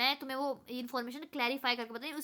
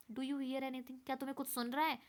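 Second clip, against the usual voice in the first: hushed, softer question; whispering; 6 dB quieter than usual. Retold or imitated. Iota whispers to Omega, hushed. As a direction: lean in and ask under your breath. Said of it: "Iota whispering to Omega".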